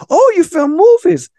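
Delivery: high, loud, drawn-out astonishment; slow, high-pitched mock amazement; surprised reaction. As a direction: act out an impressed, wide-eyed double take. Acting out the lady's surprised reaction.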